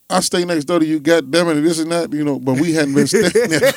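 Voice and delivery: angry cop. Retold or imitated. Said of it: "He was like".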